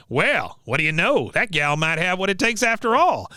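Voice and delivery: grudging admiration from a mock old soldier; Cotton. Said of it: "and he goes".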